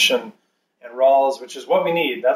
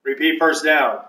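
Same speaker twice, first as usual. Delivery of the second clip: referee penalty announcement; 4 semitones higher than usual. Pretend. Mock referee calls a penalty.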